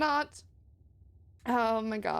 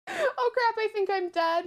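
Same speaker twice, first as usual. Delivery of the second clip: lightly raised, odd new voice; changed higher voice; 8 semitones higher than usual. Acted. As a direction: sound a bit higher than yourself. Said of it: "your voice sounds different".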